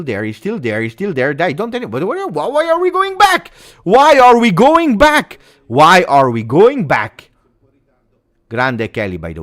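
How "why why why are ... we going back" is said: loud, high, exasperated cry of protest; frustrated shout. Real, not acted. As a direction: yell at the team for passing back. Fan streamer protesting team going back.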